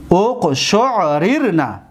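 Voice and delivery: اقشعررن very slowly, uq-shu'-rir-na; unmerged r's. Shown as a demonstration. Teacher answering what it becomes, اقشعررن slowly with unmerged r's. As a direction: sound out اقشعررن syllable by syllable.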